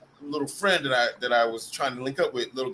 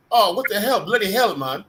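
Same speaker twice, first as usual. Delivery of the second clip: higher, louder imitation British-style accent; mock South African accent; 5 semitones higher, 4 dB louder than usual. Imitating a South African friend for listeners, mock UK accent. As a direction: put on a rough UK-tinged accent. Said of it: "like, a U K accident, a-, accent or German accent".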